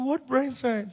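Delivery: high tearful whine; mock crying. Crying son questioning his mother's optimism, mock-tearful wail. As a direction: blubber the question in protest. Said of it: "So I'm crying for everything".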